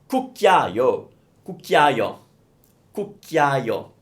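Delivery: cucchiaio repeated slowly and clearly; model repetitions. Shown as a demonstration. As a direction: say cucchiaio three times for students. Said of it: "The word is cucchiaio".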